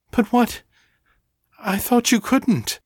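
sudden doubt breaking in; alarmed. A narrator's reading. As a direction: Ava alarmed at Danny's change. Ava alarmed, doubting Danny.

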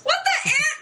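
indignant. Acted. Mock outrage at stolen lines.

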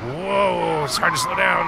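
high, excited cry while sliding fast; thrilled whoa. Acted. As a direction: ride the pole down and yelp. Sliding down a fireman pole.

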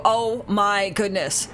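slow, drawn-out exasperated oh my goodness; exasperated exclamation. Shown as a demonstration. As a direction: sigh it out slowly instead of swearing. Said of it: "you know, like that".

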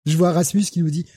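ordinary talk, nothing marked

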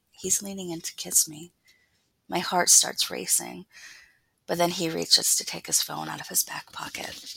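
intimate, hushed first-person reading; story narration. A narrator's reading. Author reading a scene from her novel aloud, story narration. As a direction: read it close and confiding, sliding into a near-whisper.

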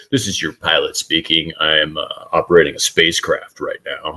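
lightly put-on pilot announcement voice; a hint of calm cockpit smoothness, barely changed from own voice; smooth pilot voice. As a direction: lightly imitate a smooth pilot addressing passengers. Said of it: "my smooth voice is gonna come".

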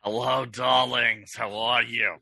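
slow, drawn-out diva greeting; campy drag queen. Pretend. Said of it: "do we all talk like this".

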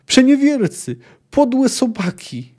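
high, loud, slow furious cry; raging insults. A narrator's reading. Dacre cursing the departing men, high furious cry. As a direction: spit each insult out in rage.

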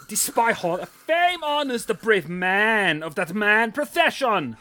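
Midwest accent, lightly put on; Midwestern accent. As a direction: read it in a mild Midwest accent. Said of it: "Midwestern twenty eighteen accent script".

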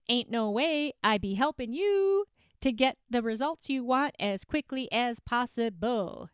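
put-on a light, half-Southern made-up accent; playful fake Southern twang, barely there. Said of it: "my weird ass accent that I just make up".

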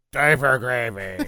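slow, lightly voiced dog. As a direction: say it like a dopey dog. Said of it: "the dog in dog voice language".

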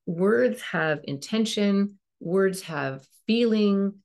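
words and feeling drawn out slowly; slow, weighty teaching emphasis; slow emphatic stress. Shown as a demonstration. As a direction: lean on each word, slow and deliberate.

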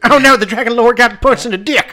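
high, loud laughing outcry. Real, not acted. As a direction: cry out through laughter. Laughing at the fight scene.

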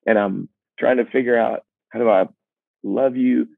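half-laughing frustration, voice climbing high; mock-desperate, voice way up; exasperated. Real, not acted. Exasperated truth behind sweet song.

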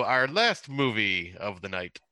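slow, spooky TV horror host; drawn-out creepy host intro; ghost host voice. Real, not acted. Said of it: "sounded like a ghost host from an old T V show".

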